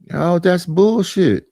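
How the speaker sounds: drawn-out mock protest, slow; mock outrage. Mocking critics who cry foul, slow mock outrage. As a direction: parody the outrage slowly.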